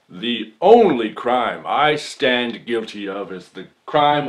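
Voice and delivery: rising to a loud courtroom plea; impassioned. Acted. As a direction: declaim it to the jury. Impassioned closing argument.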